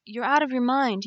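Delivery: loud, high furious outburst; angry cry. Acted. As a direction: yell it at her in fear. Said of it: "he cried".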